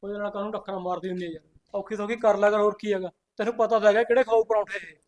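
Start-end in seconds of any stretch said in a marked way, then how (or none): 0.0-3.1 calming. Acted. Husband calming his sister privately.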